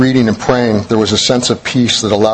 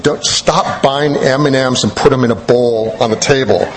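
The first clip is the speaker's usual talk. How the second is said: laughing. Retold or imitated. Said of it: "I always tell Kathleen".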